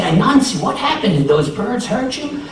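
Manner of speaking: storybook alarm; concerned neighbors. Acted. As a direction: ask in alarm, pitch climbing. Neighbors alarmed at sweating Anansi.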